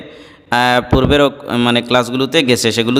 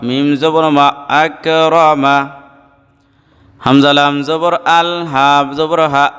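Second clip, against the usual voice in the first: measured, level spelling chant with held endings; recitation drill; slower than usual. Shown as a demonstration. Teacher leading students letter by letter, measured recitation drill. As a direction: chant the spelling, then draw out the joined word.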